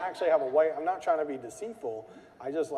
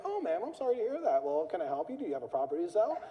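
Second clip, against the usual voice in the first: higher, gentle and polite; super calm receptionist; 6 semitones higher than usual. Retold or imitated. Receptionist calmly deflecting a threat, mock calm. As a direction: stay sweet and unbothered. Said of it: "And she's, like, super calm".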